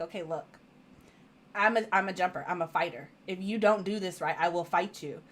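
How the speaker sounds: low, hushed, deadpan threat; retold low warning. Patient warning the vaccinator before the jab, low quiet warning. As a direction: drop low and soft to warn them.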